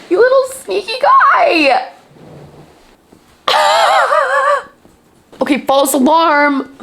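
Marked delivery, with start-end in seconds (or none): 0.1-4.7 playful tearful chiding; half-laughing tease; affectionate scold. Real, not acted. Scolding a beloved character.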